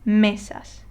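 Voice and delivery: Mesas with firm stress on ME; next-to-last syllable stressed. Shown as a demonstration. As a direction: hit the first syllable of Mesas. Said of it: "you stress the next to last syllable".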